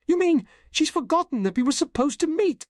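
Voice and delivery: very high, disbelieving question; incredulous. A narrator's reading. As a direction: blurt it out in shock. Learns his date was forgotten.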